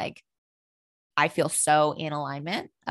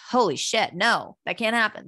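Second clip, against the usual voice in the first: higher, alarmed blurt of disbelief; 6 semitones higher than usual. Retold or imitated. Daughter imagining losing her father, higher alarmed blurt. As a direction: recoil at the thought, voice jumping up. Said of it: "it's like".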